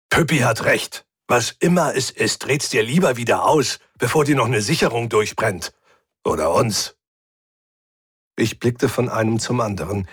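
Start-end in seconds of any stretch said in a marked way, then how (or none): 0.1-7.0 a hint of gruff, needling growl; grumpy furry crewmate. Hubert warning Rick before he blows a fuse, lightly grumbling. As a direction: side with her, grumbling sardonically.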